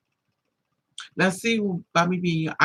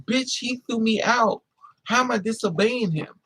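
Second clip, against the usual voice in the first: indignant comeback; 6 semitones higher than usual. Retold or imitated. Retort to father's wife.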